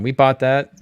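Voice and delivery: emphatic. Real, not acted. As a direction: hit "bought" hard and loud. Emphatic repeat, louder.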